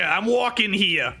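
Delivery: mock New York accent. Interviewer teasing the driver's accent attempt, in a mock New York accent. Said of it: "sounded like you were going New Yorker".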